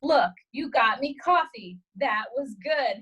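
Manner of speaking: slow, patronizing imitation; measured mock praise, spaced out; condescending. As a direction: talk down as if to a child, slowly.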